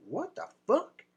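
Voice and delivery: high, incredulous mock voice; the friend seeing the photo comments, voiced high; mock astonishment. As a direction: play the friend's stunned disbelief. Friend's astonished reaction again.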